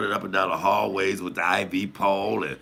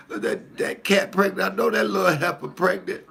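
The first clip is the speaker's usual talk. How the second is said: imitating mama; 11 semitones higher than usual. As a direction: play mama, upset about the cat. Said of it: "She was like".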